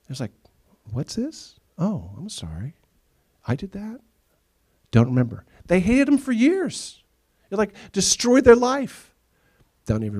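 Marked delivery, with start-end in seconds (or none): 0.9-5.4 mock clueless offender. Offender mock-innocent, retold. 5.7-9.1 high, slow, loud disbelief; incredulous emphasis. Real, not acted. Preacher stressing the injustice.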